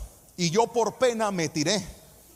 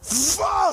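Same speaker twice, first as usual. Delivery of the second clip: whoosh sound; 8 semitones higher than usual. Retold or imitated. Coaster drops suddenly.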